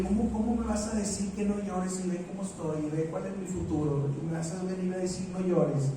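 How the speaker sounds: soft, fast disbelieving protest; grieving widow protesting to Jesus, quiet and quick; incredulous. Retold or imitated. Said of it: "algo increíble".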